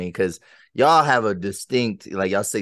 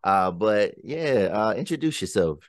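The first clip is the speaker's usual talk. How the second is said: podcast intro; 3 semitones higher than usual. Acted. Host welcoming listeners to his podcast, hyped announcer intro. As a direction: open the show like a radio host hyping the crowd.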